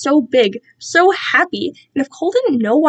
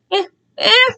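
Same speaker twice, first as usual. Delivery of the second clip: scolding captor; 11 semitones higher than usual. Acted.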